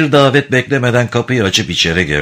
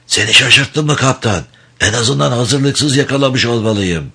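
rasping voice; 4 semitones higher than usual. Acted. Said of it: "kulak tırmalayan hırıltılı bir sesle".

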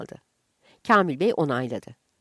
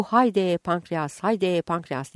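drawn-out vendor call; much slower than usual. Retold or imitated. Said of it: "diye bağıran".

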